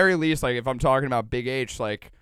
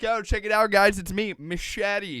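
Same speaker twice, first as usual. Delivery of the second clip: self-announcing newcomer; 5 semitones higher, slower than usual. Acted. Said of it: "I'm like".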